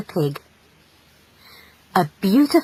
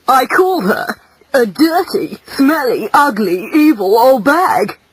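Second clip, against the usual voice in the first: louder, slowing on each insult; gleeful insult; 4 semitones higher, 5 dB louder than usual. A narrator's reading. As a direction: savour every rude word. Pig relishes insulting the witch.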